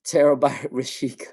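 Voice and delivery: breaking into a laugh mid-name. Real, not acted. Tarot reader cracking up at chat messages, laughing. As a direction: try to say it as laughter takes over. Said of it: "I don't know why I'm laughing so hard".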